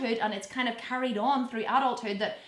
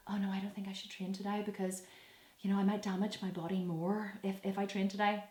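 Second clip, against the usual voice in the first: whiny excuse; 3 semitones lower, 8 dB quieter than usual. Retold or imitated. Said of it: "We go".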